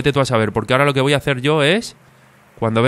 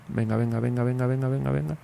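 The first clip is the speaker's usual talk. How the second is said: quiet urging; 9 dB quieter than usual. Real, not acted. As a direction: coax him on under your breath. Urging a rider on, softly. (animando en voz baja)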